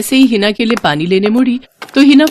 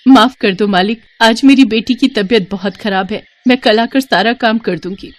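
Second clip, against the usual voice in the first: higher-pitched plea to the master; pleading apology; 3 semitones higher than usual. Acted. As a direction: beg the boss for leniency. Servant pleading with scolding master. (मिन्नत भरी माफ़ी)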